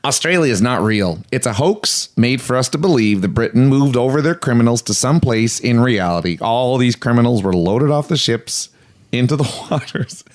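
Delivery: half-hearted attempt at an Australian accent; badly faked Australian reading, breaking into a laugh; poor Australian accent. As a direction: try an Australian accent and miss. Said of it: "do this in an Australian accent".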